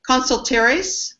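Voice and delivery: put-on "Consultores" very slow in a playful Spanish accent; host jokingly pronounces the firm's name with a Spanish accent; mock Spanish accent. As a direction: stretch "Consultores" out like a hammed-up Spanish speaker. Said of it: "my great Spanish accent there".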